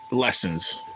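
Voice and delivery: Lessens said on its own, set apart and leaned on; stress on lessens. Shown as a demonstration. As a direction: make Lessens the key word. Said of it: "The, the, the key word".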